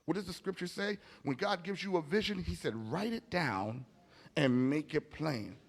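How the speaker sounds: ordinary talk, nothing marked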